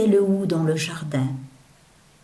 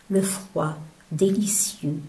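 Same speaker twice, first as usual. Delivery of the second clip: savoured whisper; 3 dB quieter than usual. Acted. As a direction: whisper it like a secret pleasure. Savouring the cold in the poem.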